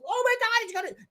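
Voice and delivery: very high squeaky mock panic; hammed-up high fright; mock shriek. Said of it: "And everybody's".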